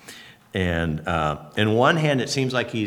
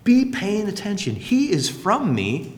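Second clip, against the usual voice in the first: God addressing disciples; 6 semitones higher, slower than usual. Acted. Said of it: "he's saying".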